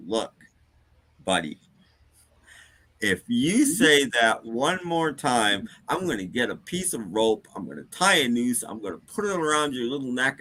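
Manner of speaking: mildly irritated, measured warning to a customer; contained annoyance, pausing for menace; teed-off bartender. Acted. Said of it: "starting to get really teed off".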